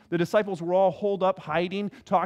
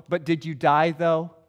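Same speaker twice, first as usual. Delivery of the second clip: imitating someone brushing off a complaint; dismissive; 3 semitones lower, 3 dB louder than usual. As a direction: toss it off as a mock dismissal. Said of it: "it's this very dismissive".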